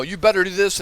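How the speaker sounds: a boss raising his voice at staff; boss yelling. Retold or imitated. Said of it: "I raise my voice and scream".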